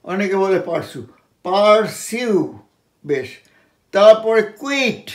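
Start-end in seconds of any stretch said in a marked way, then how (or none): 1.4-2.6 পারসিউ slowly as paar-syu; correct pronunciation. Shown as a demonstration. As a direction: stretch পারসিউ, keeping the y-glide. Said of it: "পারসু নয়".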